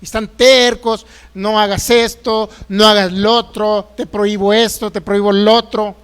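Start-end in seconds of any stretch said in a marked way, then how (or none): 1.3-6.0 stern mock prohibitions. Mocking stern legalistic preachers.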